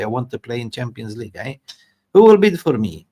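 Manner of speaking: high-pitched, hammed-up indignant striker complaint; bad Victor Osimhen impression. Aggrieved striker pleading with his agent for bids, hammed-up and high. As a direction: do a bad, overexcited caricature of a foreign footballer. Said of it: "this bad Victor, uh, Osimhen impression".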